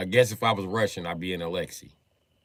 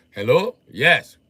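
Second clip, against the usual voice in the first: put-on Russian accent; 5 dB louder, slower than usual. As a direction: answer the phone as a Russian junkyard guy. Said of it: "Put the phone like".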